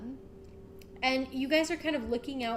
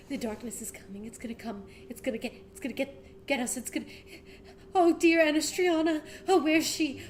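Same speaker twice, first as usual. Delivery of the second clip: frantic fear; 3 semitones higher, 3 dB louder, faster than usual. Acted. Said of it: "he's, like, freaking out".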